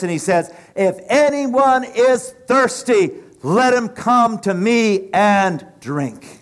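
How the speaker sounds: slow, loud proclaiming call; crying out. Acted. Preacher voicing Jesus crying out to the crowd, slow loud call. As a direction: cry it out slowly so all hear. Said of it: "Jesus cries out in a loud voice".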